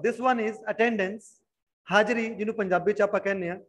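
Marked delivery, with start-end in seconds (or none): 0.0-1.2 "attendance" read out very slowly for dictation; spell-it-out slow reading of the word; slow repeat. Shown as a demonstration. Teacher slowly repeats "attendance" for the class to write. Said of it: "I repeat the word".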